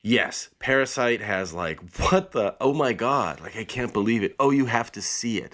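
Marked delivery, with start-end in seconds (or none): 2.0-5.5 excited. Retold or imitated. Mimicking stunned viewers.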